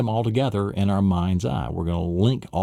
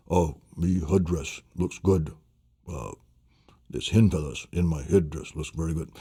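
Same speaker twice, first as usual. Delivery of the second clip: lightly voiced proud chief; 4 semitones lower, 4 dB quieter than usual. Voicing the Indian character in mnemonic story.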